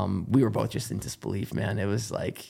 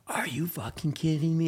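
whispered, voiceless disbelief; stunned whisper; 6 semitones higher than usual. Retold or imitated. Runner meeting his dad after the win, whispered disbelief. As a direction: breathe it out in shock. He's just yelling at me.

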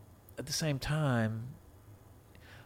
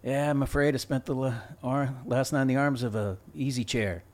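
stiff line reading; bad acting; 2 semitones higher than usual. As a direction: flub the line, deadpan. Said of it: "This is the way he delivered the line".

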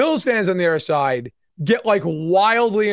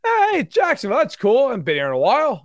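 high, breezy mock cheer; lightly voiced cheerful Jacksonville; casual Jaguars; 5 semitones higher, faster than usual. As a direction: shrug it off like the newcomer. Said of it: "much more like".

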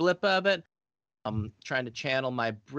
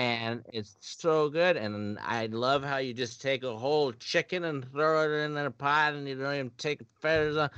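Swedish chef voice. Acted. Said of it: "Swedish chef".

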